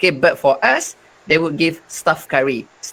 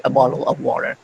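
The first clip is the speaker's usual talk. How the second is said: common British "bottle of water"; everyday British pronunciation; general British accent; 3 semitones lower, faster than usual. Shown as a demonstration. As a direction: demonstrate how most British say it. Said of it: "But most British, they would say".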